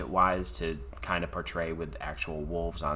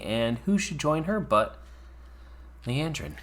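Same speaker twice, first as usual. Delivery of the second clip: snake impression; 7 semitones higher than usual. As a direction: hiss the s like a snake. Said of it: "That was my snake impression".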